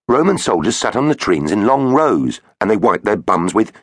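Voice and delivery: put-on boy voice. Finn explaining eagerly.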